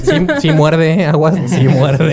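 slow warning. Pretend. Joking warning, dog bites.

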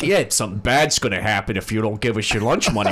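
lightly voiced schoolyard extortionist, faux friendly; mock bully. Kid recalls shaking down a classmate, mock menacing.

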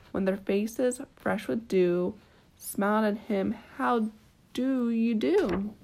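gentle bedtime story reading; storybook narration with small lilts; reading to a child. A narrator's reading. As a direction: read it like a picture book at bedtime. Reading a picture book aloud.

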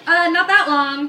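put-on drawn-out Valley Girl drawl; slow, sassy Valley Girl voice; Valley Girl accent. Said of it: "If I could break out a Valley Girl accent".

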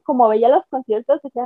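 ordinary delivery

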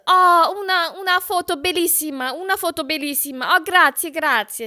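high, gushing Italian caller; excited singsong Italian impression; Giovanni. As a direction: imitate an overjoyed Italian pouring out thanks. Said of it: "und er so".

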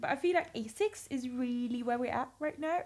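badly attempted Essex accent. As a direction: have a shaky go at an Essex accent. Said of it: "No, that was not good".

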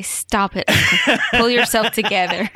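laughing mock scold. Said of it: "Did Danielle look at you and say".

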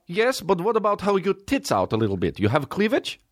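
put-on deflecting boyfriend, Russian accent. Khabib answers his girlfriend, hammed Russian accent. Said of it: "Imagine going out with that guy".

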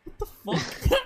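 high whispered disbelief; stunned whisper of shock. Retold or imitated. Retold shocked reaction.

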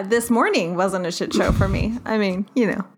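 joking, sarcastic reassurance; sarcastic mock denial. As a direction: play innocent with obvious irony. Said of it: "Really heavy sarcasm".

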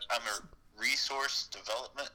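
phone speaker. Real, not acted. Caller on speakerphone.

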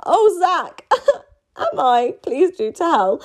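high coy flutter; mock flirty.

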